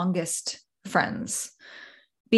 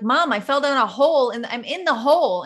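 higher mock exasperation; exasperated caller; 6 semitones higher than usual. You explaining again to mom, higher and exasperated. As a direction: spell it out to mom, lightly acted. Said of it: "you're like".

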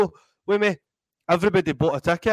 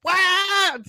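much higher, sharp astonished yelp; stunned what; 4 dB louder than usual. Retold or imitated. The speaker as a young man hearing the gig offer, high astonished squeak. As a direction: disbelief hitting all at once. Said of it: "I was like".

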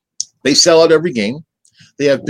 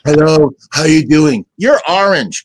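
mock prank caller; 4 dB louder, slower than usual. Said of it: "prank phone calls".

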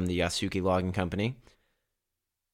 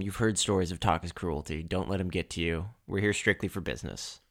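quiet, confiding aside, softer; soft whisper to a friend; 2 semitones lower, 6 dB quieter than usual. Acted. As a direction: lean in and warn him softly. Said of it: "I, like, kinda whisper to him".

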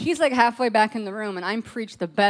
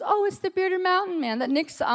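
excited prophet friend; 10 semitones higher than usual. Retold or imitated. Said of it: "she goes".

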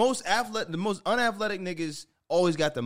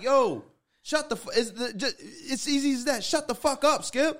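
frustrated yelling; 8 semitones higher than usual. Real, not acted. Podcast host yelling at Skip Bayless to shut up. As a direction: tell him off with rising fury.

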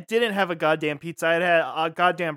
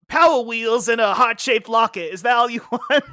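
higher, louder put-on character voice; baby mobster; 3 semitones higher, 5 dB louder than usual. Little mobster giving his sweetheart a gift, put-on voice. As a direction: offer a gift as a mock gangster.

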